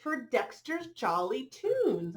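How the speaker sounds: bright, rhythmic picture-book read-aloud; reading to children. A narrator's reading. Reading a rhyming dog story to children, lilting storyteller voice. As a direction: read the rhyme to the little ones.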